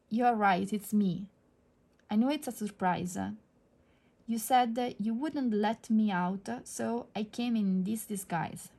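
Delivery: storybook reading of a princess's speech; reading aloud. Acted. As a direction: read it out like a picture book. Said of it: "let me maybe read to you".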